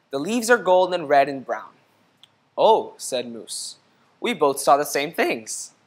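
gentle storybook read-aloud; reading to children. A narrator's reading. Teacher reading a picture book to the class, gentle read-aloud. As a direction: read it like story time for kids.

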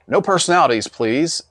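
high, sharp stern rebuke; a hint of a severe judge. A narrator's reading. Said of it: "said the judge severely".

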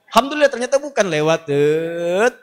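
relieved. Acted. Relief passing the house.

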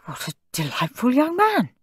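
high, charmed Santa voice; delighted Santa. A narrator's reading. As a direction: coo over a good child as Santa. Santa admires perfect child.

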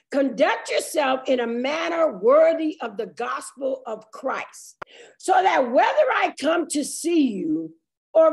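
slow, measured Bible reading; weighty, drawn-out pulpit reading; scripture reading. Real, not acted. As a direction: read the verse out deliberately, phrase by phrase. Reads scripture aloud.

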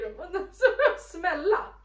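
speaking with candy on tongue; slightly muffled through mask; small candy in mouth. Real, not acted. Seen 1: Masked speaker tips candy packet to her mouth while talking.

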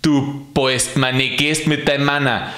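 grumbling rant. Acted. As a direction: rant at God like a cranky porter. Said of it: "im Schimpfen drin".

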